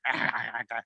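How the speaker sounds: throaty "ah" noises for puppy teeth; imitated chomping-dog noise. Host shows co-host his puppy's teeth, mock chomping noise. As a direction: imitate a dog's snapping teeth. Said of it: "his teeth are like".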